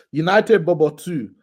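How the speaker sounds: put-on slowly announced in a Nigerian accent; mock Nigerian accent. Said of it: "why do you put accent on that".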